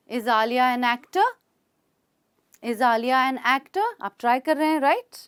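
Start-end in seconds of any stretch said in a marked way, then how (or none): 0.1-1.2 slow question, voice going up on "actor"; rising question tone. Shown as a demonstration. Teacher modelling for learners to copy, rising on "actor". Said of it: "आपका tone ऊपर जाएगा।". 2.6-3.9 slow, clear lift on "actor"; rising question tone. Shown as a demonstration. Teacher giving learners another try, tone rising on "actor". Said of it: "आपका tone ऊपर जाएगा।".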